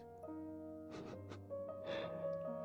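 hushed, whispery little laugh; quiet bedtime chuckle; soft chuckle. Real, not acted. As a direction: chuckle under your breath. Whispered chuckle after the intro.

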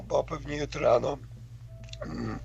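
ordinary talk

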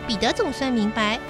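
ordinary delivery, nothing marked

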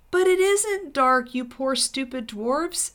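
high, slow, exasperated pleading; insistent plea. A narrator's reading. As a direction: plead with them, drawn out and high. Lucy pleads with blind dwarves.

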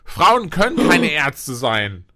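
sarcastic. Pretend. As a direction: slowly play the ironic bigot. Ironic sexist joke.

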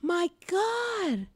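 high, loud, worked-up telling. Real, not acted. Recounting the sidewalk fight, loud and worked up. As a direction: tell it still fired up. Excited retelling.

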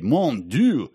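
high-pitched, hammed-up disgust; indignant exclamation. Old Canadian describing the German, hammed-up outrage. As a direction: exclaim in mock horror, climbing very high. Acts out the indignant character's outburst.

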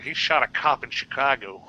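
attempted Chicago movie-cop accent. Host imitating a Fugitive actor, Chicago accent. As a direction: try a rough Chicago accent. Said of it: "that guy from The Fugitive".

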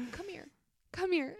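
high, soft, tearful mock plea; retelling a friend crying softly, mock teary whisper; imitating teary quiet voice. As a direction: mimic a friend choking up, hushed and high. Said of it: "talking quiet 'cause she's kinda crying".

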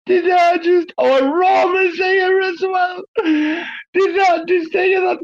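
high, slow, overjoyed near-crying squeal; tears of joy. Real, not acted. Thrilled host cries tears of joy as friend joins. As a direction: squeal with happy tears, slowly. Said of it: "oh, I'm crying".

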